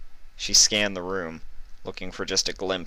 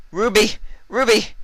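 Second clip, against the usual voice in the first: much higher, louder calls; calling her name; 7 dB louder than usual. Acted. Vinyl holding coughing Ruby, calling much higher and louder. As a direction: try to rouse her with her name. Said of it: "she said".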